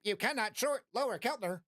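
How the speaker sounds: lightly voiced automated message, falling; mock robot alert. System alert repeated to viewers, lightly robotic.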